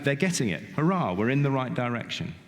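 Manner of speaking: a teacher's little hurrah at a right answer; pleased, lifted pitch, gently celebratory; mild mock cheer. Voices a teacher's delight at progress.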